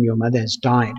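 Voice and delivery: a hushed, heavy telling; gentle grave news. Retold or imitated. Father telling his teenagers their mother died, soft and grave. Father tells children of death.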